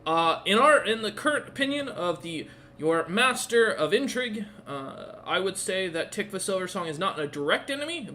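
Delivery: lightly voiced deferential advisor; dutiful royal informant. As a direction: report to your liege, lightly in character. Plays advisor reporting to the liege.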